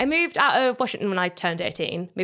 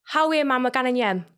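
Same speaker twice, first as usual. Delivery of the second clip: broad Geordie accent, pitched up. Shown as a demonstration. Showing a friend a Geordie line to repeat, broad Geordie accent. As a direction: say it like a local Geordie. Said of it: "Say, say, like".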